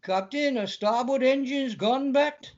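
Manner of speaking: lightly hammed Welsh engineer on the intercom; Welsh starship officer. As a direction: play up a little Welsh lilt. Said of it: "would have been great if he'd been Welsh".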